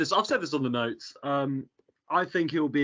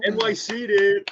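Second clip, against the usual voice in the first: put-on American accent; 8 semitones higher, 5 dB louder, slower than usual. Joining the hype in American voice.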